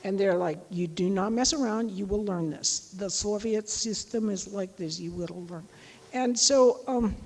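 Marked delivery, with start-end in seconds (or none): 0.7-5.7 imitating a no-nonsense Russian instructor; serious Russian teacher. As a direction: lay down the rules with a touch of Soviet severity. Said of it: "Russians are really serious".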